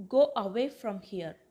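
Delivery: loud opening on "Go away", words set apart; clear, emphatic teacher demo; deliberate model phrase. Shown as a demonstration. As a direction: model "Go away from here" firmly for learners. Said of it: "அதை இங்கிலீஷ்ல எப்படி சொல்லலாம்".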